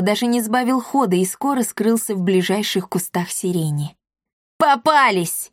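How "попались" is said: excited shout. A narrator's reading. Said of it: "восторженно крикнул".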